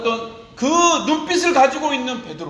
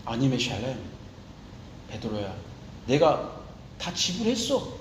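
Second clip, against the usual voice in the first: tender consoling voice; 3 semitones lower than usual. Acted. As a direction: hush it down, like a father soothing a crying child. Jesus voiced consoling Peter again.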